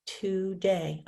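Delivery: "Today" in two separated beats, To-day; counting syllables. Shown as a demonstration. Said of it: "Now let's count it".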